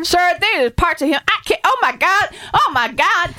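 horrified caller. Acted. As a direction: react in shock to the body. Caller sees the body.

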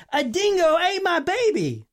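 put-on a mother screaming that a dingo ate her baby; imitated scream. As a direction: belt out the famous line. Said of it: "she's screaming".

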